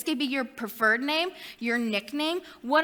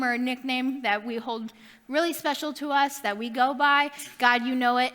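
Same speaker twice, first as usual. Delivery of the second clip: prayer. Acted. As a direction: pray it gently, winding down to the amen. Closing prayer.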